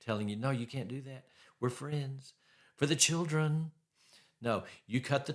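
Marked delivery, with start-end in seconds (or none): 0.4-3.7 sad puppy dog voice. Retold or imitated. Ex-spouse pleading to stay in touch, mock puppy dog voice. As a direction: lightly imitate a whiny ex pleading. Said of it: "their sad puppy dog voice".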